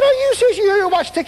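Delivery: stunned, loud, high-pitched question; amazed. Retold or imitated. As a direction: ask it as if you can't believe it. Astonished at the healed man.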